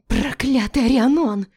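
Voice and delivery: high, loud curse through tears; tearful outburst. A narrator's reading. Melinda cursing the dead wife, high and loud. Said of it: "выдохнула она сквозь слёзы".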